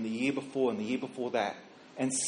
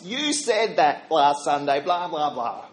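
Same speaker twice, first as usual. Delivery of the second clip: slow, taunting parroting; mocking teenager; 3 dB louder, slower than usual. Thirteen-year-old shoving dad's sermon back at him, mocking. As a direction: throw it back like a cheeky teen, lightly put on.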